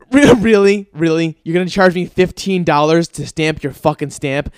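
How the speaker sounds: incredulous and loud, a mock rant at the notary; really? you're charging me for this?; outraged disbelief. Retold outrage at the notary lady, loud and incredulous. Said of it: "I go".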